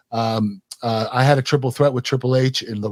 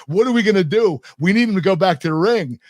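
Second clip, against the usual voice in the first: mock panic; 5 semitones higher than usual. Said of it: "Vince is going crazy".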